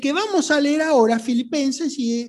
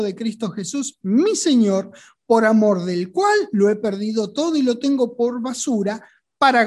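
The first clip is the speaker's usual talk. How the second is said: lectura bíblica predicada. Acted. Lee la epístola predicando.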